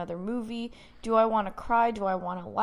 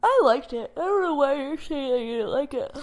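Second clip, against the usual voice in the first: laughing defence; 6 semitones higher, 4 dB louder than usual. Real, not acted.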